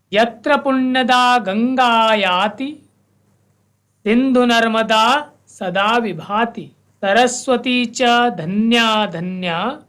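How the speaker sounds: slow, measured recital with held vowels; verse recitation. Shown as a demonstration. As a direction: chant the verse for students to follow. Teacher recites full verse. (धीमा, स्पष्ट श्लोक पाठ)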